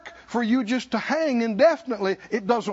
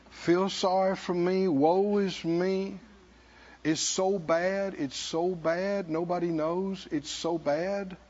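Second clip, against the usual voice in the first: slow, soft whining woe-is-me; mock self-pity; 5 semitones lower, 5 dB quieter, slower than usual. Preacher mocking a self-pitying believer, soft slow whine. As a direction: drag it out like a sorry-for-yourself moaner. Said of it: "that tint of self-pity".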